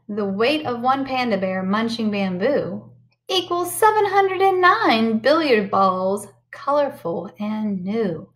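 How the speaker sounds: lively storybook read-aloud; sing-song picture book voice; reading to children. Acted. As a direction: read it bright and animated for the kids.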